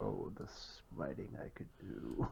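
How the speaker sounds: hushed whisper, muttered under the breath to oneself. As a character, say this under your breath. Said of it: "Under his breath".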